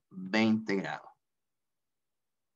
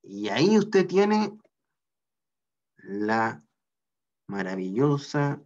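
proud reveal; slower than usual. Real, not acted. Teacher proudly revealing the solved force to the class, showman flourish. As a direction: unveil the answer like a prize.

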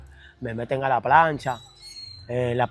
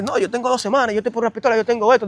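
voz del preso; 8 semitones higher than usual. Retold or imitated. Un preso responde.

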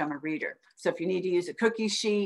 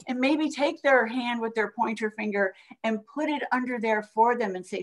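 ordinary delivery

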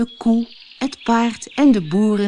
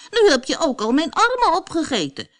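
much higher desperate wail; gingerbread man wailing; 8 semitones higher than usual. A narrator's reading. The gingerbread man wailing at the fox, high. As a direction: plead as he is eaten. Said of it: "gilde de gemberkoekman".

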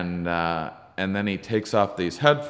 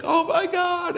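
high, louder burst of recognition; excited exclamation; 6 dB louder, slower than usual. Retold or imitated. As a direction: exclaim it high like greeting a long-lost friend. Retelling mutual recognition of alien woman.

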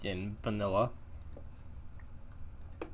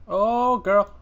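excited squeal; 8 semitones higher, 12 dB louder than usual. Real, not acted. Excited at a find.

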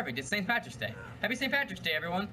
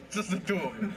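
laughing echo. Acted.

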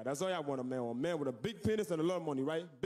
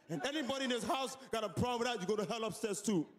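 domineering husband; 5 semitones higher than usual. Acted. Husband threatening the household.

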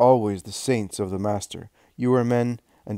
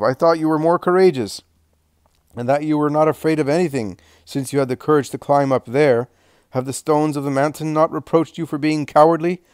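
loud, higher jeering taunt; mocking soldier; 4 semitones higher, 6 dB louder than usual. A narrator's reading. Soldier at the inn door jeers at passing disciples, loud and mocking. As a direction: sneer at the cowards from the doorway.

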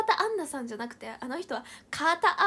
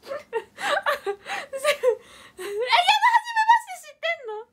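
laughing squeal; 11 semitones higher, 8 dB louder, much faster than usual. Real, not acted. Laughing outburst.

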